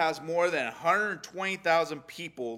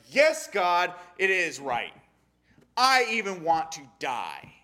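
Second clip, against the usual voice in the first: louder, defiant yes to God; angry reply; 4 semitones higher, 6 dB louder than usual. Retold or imitated. A believer answering God angrily, a touch heated. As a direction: snap back at God in mock anger. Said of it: "And you're like".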